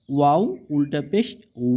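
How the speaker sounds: long "উ" with rounded lips. Shown as a demonstration. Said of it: "গোল করে উচ্চারণ করতে হয়". (ঠোঁট গোল করে টানা "উ")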